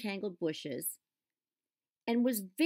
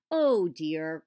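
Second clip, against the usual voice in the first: holding back a laugh; 9 dB louder than usual. A narrator's reading. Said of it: "cried Cecil, trying not to laugh".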